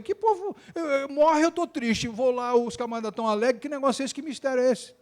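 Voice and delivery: light high-pitched voicing of baffled mourners; lightly voiced mourners wondering why this family is happy; puzzled mourner. A preacher voicing mourners from other wakes, lightly puzzled.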